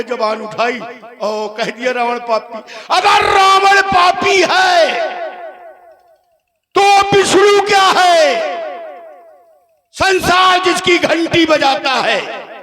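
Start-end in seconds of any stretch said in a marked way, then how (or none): 2.9-12.5 high, slow proclamation with held endings; theatrical demon-king challenge; accusing Ravan. Acted. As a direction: hurl the question out over the crowd. Stage Ravan accuses Vishnu.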